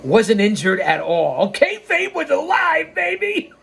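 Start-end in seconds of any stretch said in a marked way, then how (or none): 1.5-3.5 high gleeful shout-out; excited. Acted. Narrator to listeners, gleefully revealing the fake injury. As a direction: crow it with glee.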